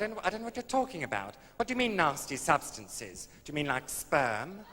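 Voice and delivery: comically exasperated retelling; losing temper. Retold or imitated. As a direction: protest as if temper is slipping. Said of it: "I quite lost my temper".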